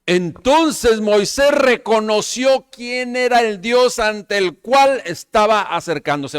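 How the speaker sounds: loud, high, drawn-out proclamation; full-force preaching. Real, not acted. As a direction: proclaim it to the congregation, stretching the words. (predicación enérgica, fuerte y aguda)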